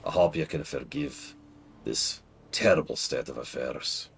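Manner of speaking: lightly put-on Dwarven accent. Apologizing to a viewer for lying about the accent, Dwarven accent. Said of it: "my native accent has always been Dwarven".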